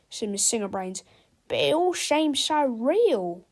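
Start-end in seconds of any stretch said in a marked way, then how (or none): 1.5-3.4 dreamy wonder. A narrator's reading. Teacher wondering.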